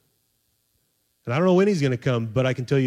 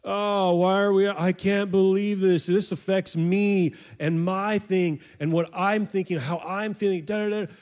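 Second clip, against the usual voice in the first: self-absorbed; 6 semitones higher than usual. Retold or imitated. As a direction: imitate someone wrapped up in themselves. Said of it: "too busy thinking about themselves".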